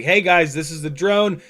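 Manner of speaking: mild mock yell to a crowd; retold screaming. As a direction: imitate calling out to rally spectators. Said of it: "just, like, screaming".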